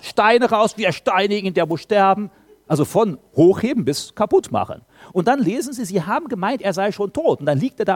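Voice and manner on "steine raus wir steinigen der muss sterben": raised, loud cry of a lynch mob; a touch of mob fury; mock hateful mob. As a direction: incite the crowd, lightly acted. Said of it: "Dann kommt der Hass".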